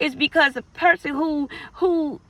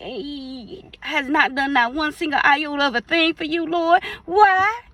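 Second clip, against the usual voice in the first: jealous whining to God; 2 semitones higher than usual. Retold or imitated. Jealous believer complaining to God, whining toward a wail. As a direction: complain to the Lord, working up to a wail.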